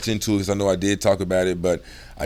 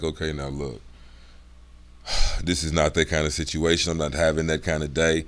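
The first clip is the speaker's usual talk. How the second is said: low, quieter no-nonsense tone; serious, dropped voice; 7 semitones lower, 5 dB quieter than usual. Shown as a demonstration. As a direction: talk low to the kids, seriously. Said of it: "I drop my voice".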